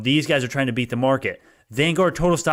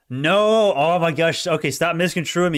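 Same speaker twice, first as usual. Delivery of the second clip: irritated; 4 semitones higher, slower than usual. Real, not acted. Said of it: "Now I'm getting pissed off".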